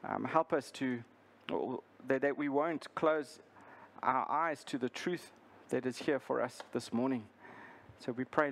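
subdued, halting public prayer; earnest praying voice, falling away at phrase ends. Real, not acted. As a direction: lead the congregation in unhurried prayer. Leads the congregation in prayer.

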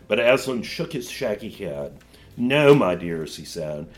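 measured, expressive storybook reading; story narration. A narrator's reading. Teacher reads a Narnia passage to a class, story narration. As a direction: read it out with care for each phrase.

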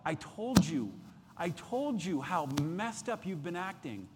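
scolding I-told-you-so; mock reproach. Preacher imagining God scolding the asker, reproachful. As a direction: throw past mistakes back at them, mildly. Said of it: "look at you with reproach".

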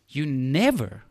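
"never" set apart with a falling tone; emphasize "never" as the key word; stress on NEVER. Real, not acted. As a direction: land firmly on "never", then stop. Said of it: "I want to emphasize this word".

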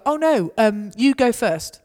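gently but firmly hand it back; playful you-go-first to a drunk clubber; cheerful insistence. Retold or imitated. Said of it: "And I'll go".

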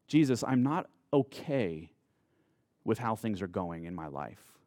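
a hushed, burdened plea to Jesus; honest weary prayer. Pretend. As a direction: pray it like someone worn out and finally honest. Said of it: "That's what it sounds like to come weary and heavy laden".

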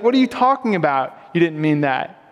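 mildly exasperated retort, retold; frustrated wife. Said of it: "my wife would get so frustrated".

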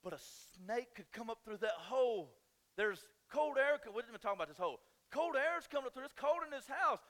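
high, loud, panicky wife voice, climbing to a yell at bugs; mimicking wife's panic. Husband mimics his wife's panic over the floor hole, high and loud. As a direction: play the frantic wife spotting danger everywhere. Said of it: "she's like".

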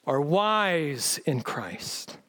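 slow, drawn-out mock praise; sarcastic. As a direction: stretch it out as fake flattery. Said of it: "read sarcasm".

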